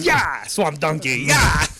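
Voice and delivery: loud, high cowboy holler; hammed-up rodeo yell; rider's whoop. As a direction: whoop it like spurring a horse. Same rider whoop continued.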